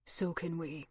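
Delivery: a quiet, taut, sure reply; taut and confident. A narrator's reading. Alex assures the cabbie, taut and confident. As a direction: answer with steady confidence. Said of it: "his voice taut and confident".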